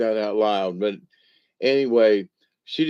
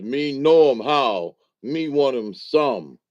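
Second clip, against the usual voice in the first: slow, stiff, a bit louder, delivering the joke's punchline; solemn punchline voice; 2 semitones higher, 4 dB louder, slower than usual. Retold or imitated. Storyteller hams up the old joke's punchline, slow and solemn. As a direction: arms folded, lightly voiced solemn old-joke Indian. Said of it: "he folds his arm and he goes".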